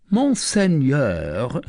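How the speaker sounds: slow, rising call; archer calling. Acted. Archer calling to Tristan, rising. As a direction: catch the lord's attention.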